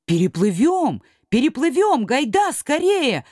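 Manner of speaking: eager shout. Acted. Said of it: "ответили крошки".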